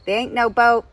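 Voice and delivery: brash, condescending American caricature; hammed-up American know-it-all; Francine's terrible American accent. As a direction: lecture in a put-on American accent. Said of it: "terrible accent of Francine".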